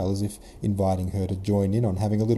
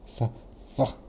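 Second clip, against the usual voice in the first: short spluttered puff of scorn; derisive snort; 4 semitones higher, 4 dB quieter than usual. A narrator's reading. Old Bolkonsky scoffing at the prince, snorting. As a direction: snort on a bitten-off f. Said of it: "snorted old man Bolkonsky".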